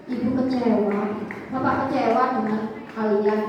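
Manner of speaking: dramatic disappointment. Retold or imitated. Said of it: "dibuat sedramatis mungkin".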